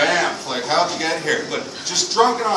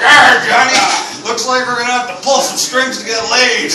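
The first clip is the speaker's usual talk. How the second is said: a hint of a pirate, first word louder; 4 semitones higher, 4 dB louder than usual. Turning pirate to get laid, lightly voiced pirate. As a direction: lightly growl it like a pirate captain. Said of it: "turned into a fucking vagina pirate".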